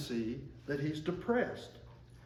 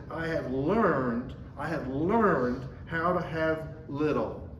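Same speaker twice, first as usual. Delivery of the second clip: "learned" slowed and a bit louder; stress on learned; 3 dB louder, slower than usual. Shown as a demonstration. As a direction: dwell on "learned" the second time round. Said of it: "I emphasize the word learn".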